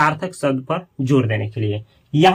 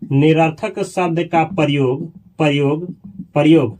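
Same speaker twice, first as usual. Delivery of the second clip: slow dictation; 3 semitones lower, slower than usual. Shown as a demonstration. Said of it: "सुनिएगा".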